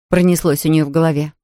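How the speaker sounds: ordinary delivery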